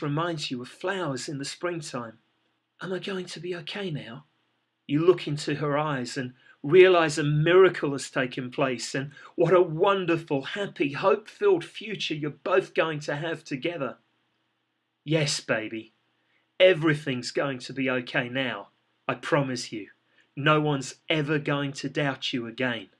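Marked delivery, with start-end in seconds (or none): 2.8-4.3 weak small voice. Acted. Revived business asks weakly. 15.0-22.9 tender reassurance. Acted. Comforting revived business.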